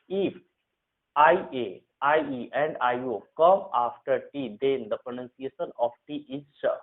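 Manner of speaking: slow, deliberate rule dictation. Shown as a demonstration. Teacher to Hindi students, dictating the rule slowly. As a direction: spell out the rule word by word for students.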